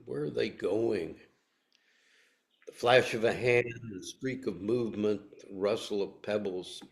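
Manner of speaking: poem reading. Acted. Speaker repeats the ending for listeners, restrained poem reading. I'm gonna say that again.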